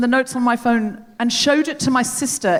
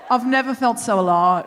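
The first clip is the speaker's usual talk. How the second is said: lightly imitated Australian driver; affectionate take on an Australian accent. Driver shares his thrill with passengers, in a lightly put-on Australian accent. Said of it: "I'm going to do the accent".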